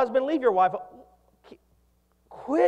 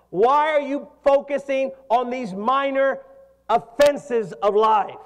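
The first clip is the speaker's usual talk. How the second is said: loud, higher, drawn-out emphatic preaching; forceful preaching challenge; 4 semitones higher, 5 dB louder than usual. Acted. Preacher voicing Jesus to the judgmental, forceful challenge. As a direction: press each point slowly and loudly.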